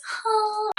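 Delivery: high held wordless "oh"; high "oh" note. Real, not acted. Vlogger lamenting her lost voice, high held "oh".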